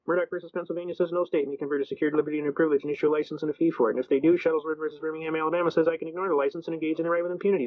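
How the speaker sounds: rapid-fire, even-toned courtroom recitation; recited legal speech. Retold or imitated. Defendant reciting his defense to the judge, steady rote delivery. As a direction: rattle off the memorized argument without hesitation.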